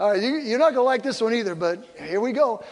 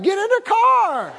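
mock order; 11 semitones higher than usual. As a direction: bark it at your wife, half laughing. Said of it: "I'm like".

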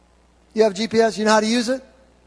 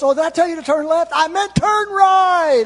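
high put-on voice, stretching the correction; local correcting himself; 7 semitones higher, 5 dB louder than usual. Local admitting wrong turn to lost driver, high mock correction. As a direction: act out a loud, high correction.

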